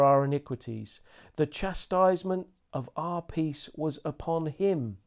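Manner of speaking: slow solemn reading of Isaiah; very slowly. Shown as a demonstration. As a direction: draw out wounded and bruised with weight. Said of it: "Let me read this very slowly to you".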